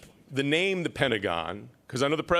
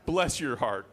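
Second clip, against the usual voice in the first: mock-polite bless your heart; 2 semitones lower, slower than usual. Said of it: "Bless their hearts".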